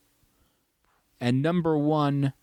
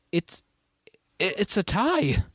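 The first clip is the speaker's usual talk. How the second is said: dramatic reveal; 9 semitones higher than usual. Acted.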